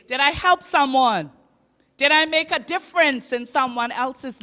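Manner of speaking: help hit loud, falling at the end. Real, not acted. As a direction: cry out help to the crowd.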